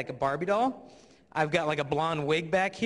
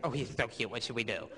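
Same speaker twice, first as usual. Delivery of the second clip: lower, soft swooning gushing; girl's crush voice; 5 semitones lower, 5 dB quieter than usual. Retold or imitated. A fourth-grade girl gushing softly to her friend. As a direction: swoon over the cute boy, softly. Imitating girls plotting.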